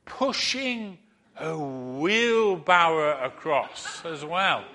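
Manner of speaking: slow, grand call with a laugh; showman challenge. Retold or imitated. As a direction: draw it out like a ringmaster. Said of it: "he says to the crowd".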